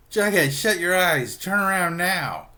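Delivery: loud, high, drawn-out mock shout; frantic order. Archie orders Jughead to look away, shouting. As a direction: act out a panicked command.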